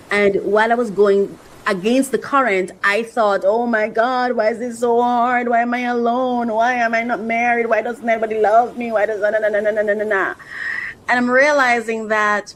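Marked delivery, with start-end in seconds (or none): 3.4-10.3 lightly whiny run-on complaint; mock lament on one level tone; mock self-pity. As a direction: imitate your own moaning, trailing into na-na-na. Mimics own past self-pitying thoughts.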